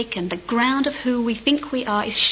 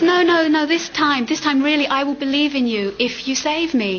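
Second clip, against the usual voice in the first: louder, higher begging; desperate begging; 4 semitones higher, 3 dB louder than usual. Acted. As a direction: plead urgently with God. Man begging God desperately.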